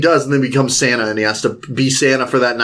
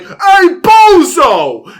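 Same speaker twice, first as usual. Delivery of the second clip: slow, high, loud jeering yell; mock yell; 7 dB louder, much slower than usual. Son yelling at Santa on the roof, high jeering shout. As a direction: stretch out a taunting holler. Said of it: "He's like".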